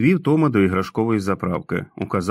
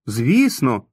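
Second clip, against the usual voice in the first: exclaiming; 3 semitones higher than usual. Acted. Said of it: "вигукнув Том".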